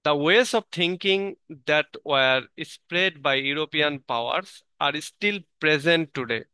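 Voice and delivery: slow, deliberate reading of a passage; measured textbook reading; slow reading aloud. Acted. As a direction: read each English phrase out carefully for the class. Reads English source text slowly.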